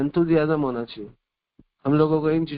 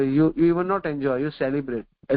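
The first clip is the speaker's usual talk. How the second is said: very slow, word by word; slow maxim; much slower than usual. Acted. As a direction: spell out the lesson slowly for the listeners.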